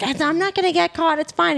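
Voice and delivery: airy high brush-off, not worried at all; breezy dismissive. Retold or imitated. Retelling the secretary's carefree answer, high and airy. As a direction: toss it off lightly, way up high. Retold dismissive reply to a worry.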